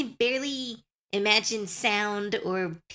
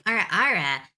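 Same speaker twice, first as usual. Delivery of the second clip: louder, showy sultry catchphrase; sexy voice demo; 6 dB louder than usual. Shown as a demonstration. Streamer proving she can do the short catchphrase, showy sexy voice. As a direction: punch out the teasing catchphrase with confidence. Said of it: "I know how to do".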